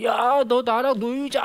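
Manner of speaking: put-on high, drawn-out childish plea; clingy child. Child hanging on a friend to play, clingy. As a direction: drag it out like a kid begging. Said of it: "친구한테 막 매달리기 시작합니다".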